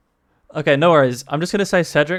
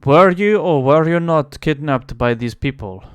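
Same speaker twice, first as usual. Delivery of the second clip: louder, pressing interrogator; demanding, raised voice; 5 dB louder than usual. Acted. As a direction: hit WERE and demand an answer. NPC presses the question again.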